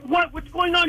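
high-pitched clueless question; feigned innocence. Retold or imitated. Driver to his puking buddy, acting clueless. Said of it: "I'm pretending, I'm playing, pleading the fifth".

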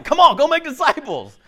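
high, loud caricature of Jesus shouting; mock yell, ordering people out; hammed-up shouted command. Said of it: "the guy yelling at us".

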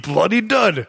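put-on Cockney exclamation; mock Cockney. Host settling what the henchman said, mock Cockney. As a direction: repeat the line in hammed-up Cockney. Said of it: "he says bloody".

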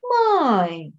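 imitating a child's calm "Mãe"; long, falling, unbothered call to mom. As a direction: say it totally untroubled, drawn out. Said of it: "bem tranquilo assim".

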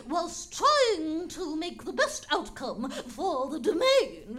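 put-on soft sinister old lady; old woman whispering. Sinister figure gives soft advice.

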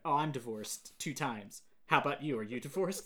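mock-deadpan coroner; emotionless. Imitating the coroner telling a cop of her divorces, emotionless. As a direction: read her lines with all feeling removed. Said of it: "She has no emotion".

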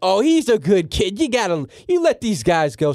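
high, laughing surprised question; delighted tipsy commissioner. Retold or imitated. Tipsy Tagliabue delighted by the kid's hat, high laughing question. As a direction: gush over the G on his hat. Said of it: "He's like".

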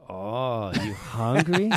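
low, soft put-on Asian accent; retold question in an Asian accent; mock Asian accent. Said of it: "giving her an Asian accent".

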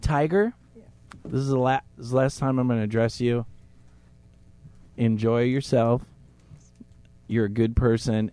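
soft, hushed address. Real, not acted. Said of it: "we're all gonna whisper".

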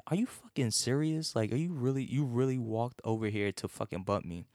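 rising, exasperated are-you-serious; incredulous inner voice. Retold or imitated. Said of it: "like, this is in my head".

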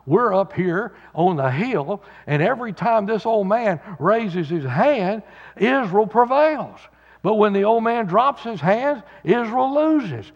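a hint of a TV reporter's live report; Dan Rather impression. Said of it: "Can you hear Dan Rather saying".

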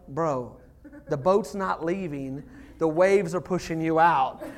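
calm reassurance. Retold or imitated. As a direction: talk down a panicking kid. Retold calm answer to panicking child.

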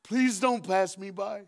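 slow begging plea; pleading. Acted. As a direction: stretch it out, desperate. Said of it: "he screamed".

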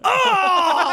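high laughing exclamation. Retold or imitated. Comic recalling a charity gig, high laughing oh. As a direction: burst out with a laughing oh. Startled reaction in retold story.

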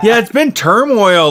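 slow, laughing and high. Real, not acted. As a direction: laugh the words out slowly. Laughing at the surgery story.

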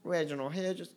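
soft, high Southern accent; a small, quiet last go at the Southern voice; bad American South accent. Shown as a demonstration. Podcaster sneaks in one last quiet try at his American South accent. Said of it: "Okay, I'll stop doing it".

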